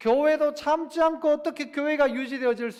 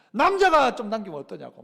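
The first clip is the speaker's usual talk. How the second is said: a touch of mock anger, louder; half-hearted angry comeback, a bit louder; retold angry retort; 5 dB louder than usual. Pastor retelling how he snapped back at a remark, mild mock anger. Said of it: "막 화를 냈던 적이 있어요".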